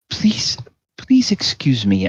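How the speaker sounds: whispered, high, embarrassed plea; whispered apology. Acted. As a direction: hiss out a mortified excuse. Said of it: "he says".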